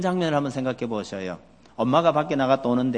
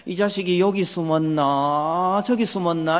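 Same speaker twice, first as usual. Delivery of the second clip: mock searching; 5 semitones higher, slower than usual. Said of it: "이러고 계시는 거예요".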